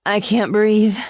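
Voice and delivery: high, loud, breathless panic; panicked gasp. A narrator's reading. Ava panics in his arms, gasping high and loud. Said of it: "I gasped".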